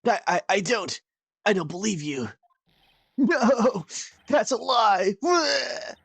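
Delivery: high frantic shouting denial; overacted anime dub. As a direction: break down screaming like a dub. Character breakdown.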